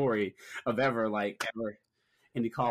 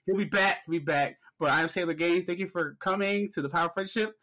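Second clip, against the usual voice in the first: higher-pitched welcome to the audience; host greeting listeners, pitched up; podcast host intro; 4 semitones higher than usual. Real, not acted. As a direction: rattle off the show's sign-on to the fans. Hosts the show intro.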